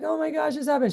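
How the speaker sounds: high whiny oh my gosh, half-hearted; imitating a kid playing up her upset; mock distressed sister. Little sister fakes distress to get parents' attention, high mock whine.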